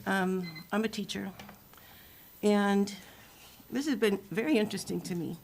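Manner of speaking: muffled behind a mask; through a plague doctor mask. Real, not acted. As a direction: speak through a face mask. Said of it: "Can you hear me through this mask?".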